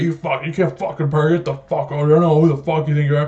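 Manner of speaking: mildly heated mock rant; retold cursing. Manager cursing out delivery driver, retold mild rant. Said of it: "he starts cursing me".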